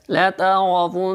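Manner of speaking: لترون with a short لا and a thick را; don't stretch لترون, make the ra heavy; لترون with a quick la and heavy ra. Shown as a demonstration. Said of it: "کھینچنا بھی نہیں ہے لیکن موٹا کرنا ہے".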